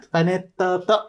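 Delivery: high-pitched put-on call; put-on vocal delivery. Riffing on a cake name, high put-on voice. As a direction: pitch it up like a mannered impression. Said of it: "それ、あの、岩本発声でしょ？".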